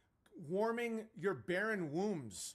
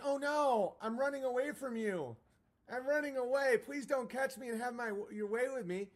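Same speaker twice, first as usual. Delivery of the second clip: mock coy damsel; 6 semitones higher than usual. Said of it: "Lift the Veil is, it's like".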